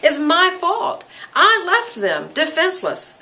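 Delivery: lightly acted anguish, pitch lifted high; distraught. Macduff blames himself for leaving his family defenseless, lightly acted distraught. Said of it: "totally distraught".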